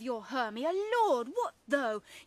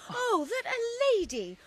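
tearful lament; 3 semitones higher, 4 dB louder than usual. Acted. Helena weeps at being mocked.

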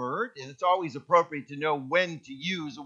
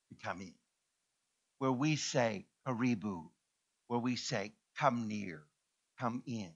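hushed prayerful invitation; 7 semitones lower, 8 dB quieter than usual. Acted. Preacher inviting God into the heart, very soft and low.

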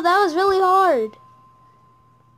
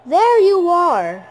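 slow startled find; 4 dB louder, slower than usual. Real, not acted. Spotting the animatronic.

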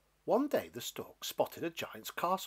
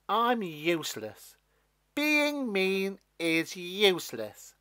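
dejected; 8 semitones higher, 7 dB louder, slower than usual. Acted. Stalk gives up.

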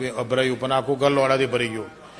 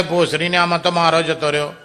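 angry outburst; 3 semitones higher, 6 dB louder than usual. Acted. Husband yells at his wife, angry and loud. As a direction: yell it out in outrage.

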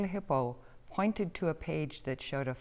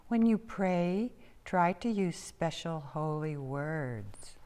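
reading aloud; slower than usual. A narrator's reading. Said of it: "Haley continued reading".

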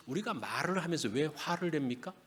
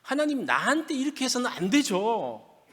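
acted indignant complaint, pitched up; angry at God; 5 semitones higher, 3 dB louder than usual. Believer confronting God over unfair treatment, angry. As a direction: protest to God as if wronged, mildly heated. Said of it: "하나님께도 막 화를 내요".

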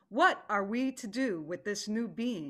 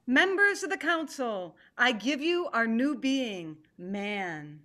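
formal address. Acted. Tiger formally addresses the gathered council, raised announcing voice. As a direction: open the meeting with ceremony.

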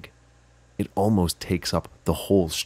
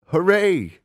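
much higher, loud cheer; excited cheer; 12 semitones higher, 7 dB louder than usual. Acted. Host cheering to children about the farm, excited. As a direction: burst out with joy.

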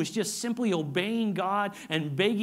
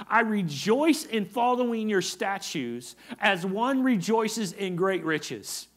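slow psalm reading; 3 semitones higher, 4 dB louder, slower than usual. Acted. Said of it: "Look at what he says".

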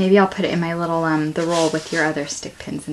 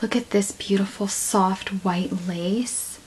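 whisper; 6 dB quieter, slower than usual. Real, not acted. Admiring the lace.

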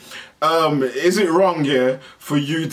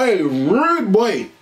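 roadman greeting; 3 semitones higher, much slower than usual. Retold or imitated.

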